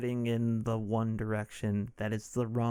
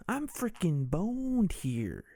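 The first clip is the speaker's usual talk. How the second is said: slow, whispered and higher Michael Douglas; whispered Michael Douglas impression; 6 semitones higher, slower than usual. Comic redoing his Michael Douglas line as a slow whisper. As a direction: breathe it out slowly like a rasping Michael Douglas. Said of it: "That's what Michael Douglas actually sounds like".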